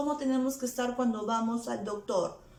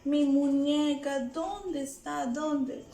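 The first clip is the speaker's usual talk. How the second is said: mildly plaintive, higher pitch; a touch of child-like distress; worried searching; 5 semitones higher than usual. Acted. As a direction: act out hunting for a lost toy. Acts searching for a lost toy.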